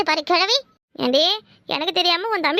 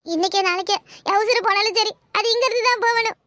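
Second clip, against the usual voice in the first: hammed-up tearful pleading; put-on weeping, swearing never to go back; fake sobbing plea. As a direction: overplay the misery to the sister-in-law. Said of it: "ஏன்டி இப்படி அழுவுற".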